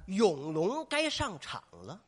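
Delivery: slow, drawn-out stage call; misheard cue. Acted. Old actor mishearing his cue, slow drawn-out call. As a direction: stretch the call out slowly. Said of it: "听拧了".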